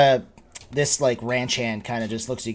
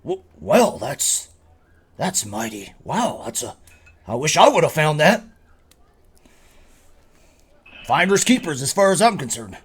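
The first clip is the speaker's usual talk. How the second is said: lightly voiced innkeeper, halting then lifting higher; impressed innkeeper; 8 semitones higher, 8 dB louder than usual. Innkeeper admiring the gold Rain found, lightly acted and impressed. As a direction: marvel at the find in a swooping voice.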